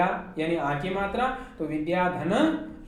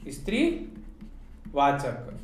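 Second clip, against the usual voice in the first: slow emphasis; 5 semitones lower, much slower than usual. Shown as a demonstration. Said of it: "ध्यान रखना है कि स्त्रीवाचक".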